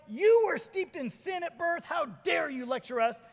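high, loud, drawn-out rebuke; acted outrage. A narrator's reading. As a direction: thunder it as an offended accuser in a dramatic reading. Pharisees rebuke man before expelling him.

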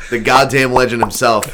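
loud showman introduction; ringmaster. Pretend. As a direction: boom it out like an arena announcer. Introducing arriving friend.

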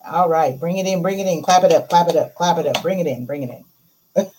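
loud rallying chant; halftime pep speech. Acted. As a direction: hype up the team. Rallies listeners, clap it up.

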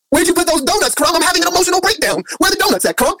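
high, fast, pleading mock breakdown; whiny emotional snacker. Talking to Crumb about donuts in a high, fast mock wail. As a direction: wail for the donuts like a comic crybaby.

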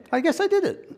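high, loud, laughing admission; amused, voice pitched right up. Real, not acted. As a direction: say it through real laughter. Cracking up at own impression.

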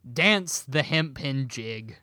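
slow, drawn-out pirate line. Shown as a demonstration. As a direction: drawl it like a pirate. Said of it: "I'm gonna say it like a pirate".

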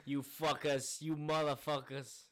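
loud, drawn-out mock insult; cursing captain. Captain swearing at his crew, mock anger. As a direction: curse out the crew, slowly and hammed-up.

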